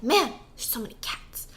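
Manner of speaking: soft, awed whisper; overwhelmed whisper. Retold or imitated. Tripping guy staring at the cats, whispering in awe. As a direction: breathe it out, overwhelmed.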